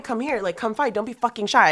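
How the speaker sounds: high, loud goading call to come fight; taunting to fight. Retold or imitated. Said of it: "she wants to fight".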